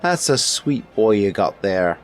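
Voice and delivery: high, loud cook with a wobbly put-on accent; cook's drifting accent. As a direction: let the servant's accent wander as it goes. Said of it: "what accent that was turning into at the end there".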